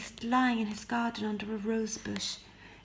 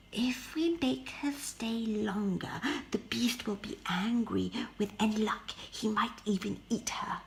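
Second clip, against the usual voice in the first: sly. Acted. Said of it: "said Marie slyly".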